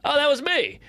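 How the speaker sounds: high, carefree owning up; blithe drunk confession. Retold or imitated. Drunk kid to angry car owner, blithe confession. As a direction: mimic your clueless drunk self.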